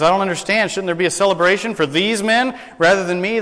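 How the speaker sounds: genuinely confused about the honour; puzzled accountant. Retold or imitated.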